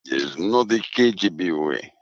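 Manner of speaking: slow, put-on Russian accent. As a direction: play a KGB man in a Russian accent. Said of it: "your Russian accent there".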